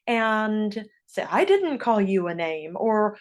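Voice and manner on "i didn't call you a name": mock defensive denial. Accused kid denying the name-calling, acted defensive. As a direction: push back as if wrongly blamed. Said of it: "can easily get very defensive".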